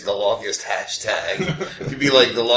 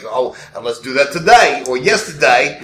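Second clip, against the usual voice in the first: put-on New York tough-guy accent, louder; 6 dB louder than usual. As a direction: imitate a gangster-movie New York accent. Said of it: "a little bit of a New York accent".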